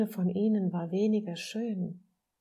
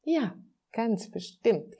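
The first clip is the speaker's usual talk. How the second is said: higher, louder, drawn-out playful yes; slow it down with a hint of a giggle; mild giggly assurance; 4 semitones higher, 5 dB louder, slower than usual. A narrator's reading. Friendly soul reassures the little soul, lightly giggly. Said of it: "kicherte die freundliche Seele".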